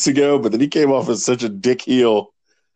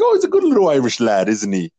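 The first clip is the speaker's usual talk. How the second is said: put-on Irish accent. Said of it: "did a little Irish impression".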